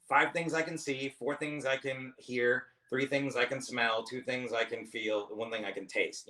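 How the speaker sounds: slow, deliberate grounding count; counting down slowly. Shown as a demonstration. Comic showing his panic grounding trick, slow counting. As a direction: count each sense off calmly, step by step. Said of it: "All right, I wanna".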